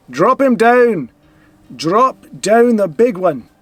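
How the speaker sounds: will the big guy to go down; urging on. Real, not acted. Cheering his card to drop the big guard, slow loud urging.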